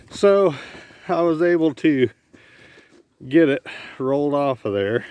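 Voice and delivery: panting after rolling a hay bale; winded, gasping between words; out of breath. Real, not acted. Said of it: "I'm out of breath".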